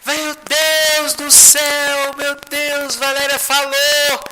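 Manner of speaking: high, drawn-out cry of amazement; astonished exclamation. Retold or imitated. Telling everyone that Valéria has spoken, astonished exclamation. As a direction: cry out in joyful wonder, long vowels ringing.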